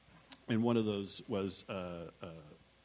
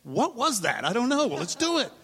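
higher, excited bewildered voice; the writers after Larry David's call, higher and dazed; stunned disbelief; 11 semitones higher, 5 dB louder than usual. Retold or imitated. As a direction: sound thrilled and baffled at once.

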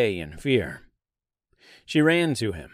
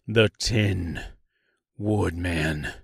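low, drawn-out southern naming; name yourself slowly with a southern lilt; slight southern accent; 5 semitones lower, slower than usual. A narrator's reading. Tin Woodman introducing himself to the tree, slight southern drawl. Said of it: "he replied with a slight southern accent".

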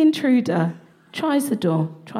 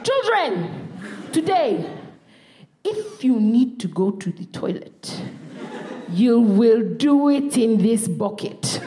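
strict mum; slower than usual. Retold or imitated. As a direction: lay down the bucket rule, slowly. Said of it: "She's like".

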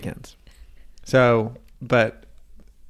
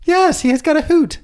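high, loud hooting delivery; Commander Sisko voice; 4 dB louder than usual. Retold or imitated. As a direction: hoot it like an overacting captain. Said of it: "That's what he sounds like to you?".

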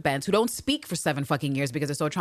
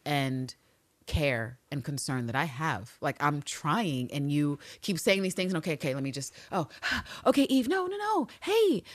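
strained patience; 2 semitones lower, 4 dB quieter than usual. Retold or imitated. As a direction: hold it together then crack upward. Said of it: "where she's like".

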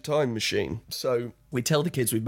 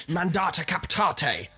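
drill order in Latin; 6 semitones higher, slower than usual. Retold or imitated. Roman soldier drilling kids.

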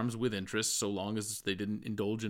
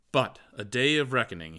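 crescendo; 3 semitones higher, 6 dB louder than usual. Acted. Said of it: "he stated crescendo".

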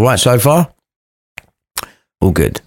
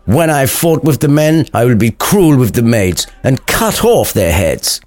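mildly hammed-up tough talk; trying to sound hard; 3 semitones higher than usual. Samson bragging about cruelty, trying to sound hard. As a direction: put on a hard-man act. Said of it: "still trying to sound hard".

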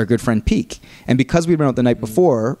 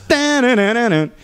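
stamp beat; 10 semitones higher than usual. Retold or imitated. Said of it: "the foot stamp like a singer".

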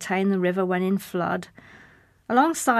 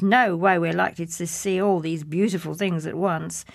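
scoffing; 4 dB louder than usual. Acted. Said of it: "I scoffed".

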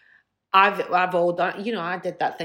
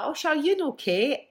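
imitated casual introduction; 9 semitones higher than usual. Acts out Elton's casual introduction.

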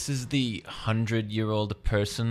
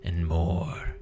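spooky storytelling. Acted. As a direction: draw the listeners into the tale. Tells a spooky tale by the fire.

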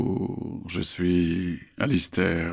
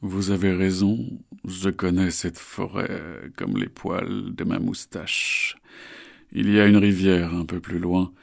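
slow, smooth, falsely soothing; reassuring. Acted. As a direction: lull them into trust. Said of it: "sa voix la plus rassurante possible".

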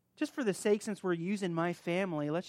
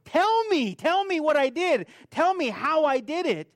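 loud, high challenge, each TELL hit hard; bring it on; 8 semitones higher, 7 dB louder than usual. Retold or imitated. To his brother, a loud daring tell me. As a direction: dare him to say it, voice raised. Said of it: "And I said".

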